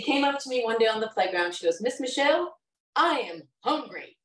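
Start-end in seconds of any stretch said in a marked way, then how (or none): 1.8-4.2 put-on higher, swooping bold little girl voice. Bold girl marching up to her helper on the playground, high bold voice. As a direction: announce it like a bold little kid, pitched up. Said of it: "that's exactly how she talked".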